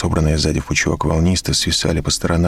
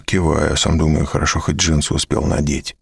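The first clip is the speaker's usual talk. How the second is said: ordinary delivery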